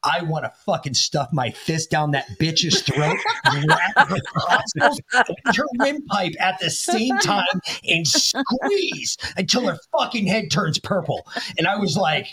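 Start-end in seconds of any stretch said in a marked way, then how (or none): 0.0-11.3 mock rage rant. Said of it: "why is there a demon in front of me".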